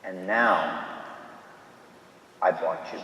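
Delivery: softly cherish each phrase, fading to a whisper; tender near-whisper. Acted. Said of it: "And he whispers to it".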